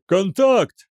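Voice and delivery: high, loud single-word cry; yelled alert. A narrator's reading. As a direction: shout the sighting. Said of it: "заорал отслеживающий офицер". (орёт тревогу)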